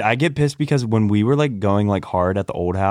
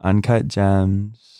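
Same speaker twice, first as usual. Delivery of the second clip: put-on slow, drawn-out Valley girl; 2 semitones lower, much slower than usual. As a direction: say Uncut Gems slowly like a Valley girl. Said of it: "Like a complete white girl".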